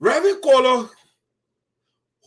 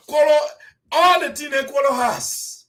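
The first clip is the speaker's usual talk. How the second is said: laughing; 5 semitones higher, 4 dB louder than usual. Real, not acted. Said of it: "I'm laughing".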